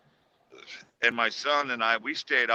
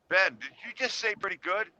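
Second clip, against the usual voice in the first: puzzled question; 8 semitones higher than usual. Retold or imitated. Dad questioning son, puzzled.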